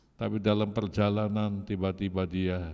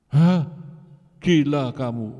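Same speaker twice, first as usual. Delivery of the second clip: shocked shout of disbelief, much higher and louder; angry shout; 6 semitones higher, 8 dB louder than usual. Retold or imitated. Father shouts at his son at midnight, outraged.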